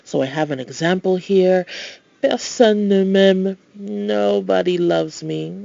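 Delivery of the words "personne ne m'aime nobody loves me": slow, mock-mournful read; lightly hammed-up sadness; mock sad. Shown as a demonstration. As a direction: pretend to be sorry for yourself, slowly. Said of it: "Oh, sad face".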